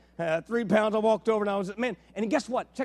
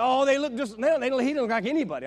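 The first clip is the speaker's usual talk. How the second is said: fast flustered gushing; 4 semitones higher, 4 dB louder, faster than usual. Retold or imitated. Others fumbling to identify baby.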